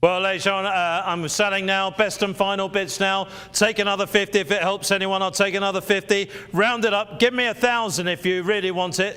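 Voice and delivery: brisk auction patter calling for bids; auctioneer. Acted.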